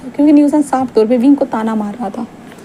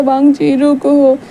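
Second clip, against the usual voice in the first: calling out while running; much slower than usual. Acted. Running after car, calling out.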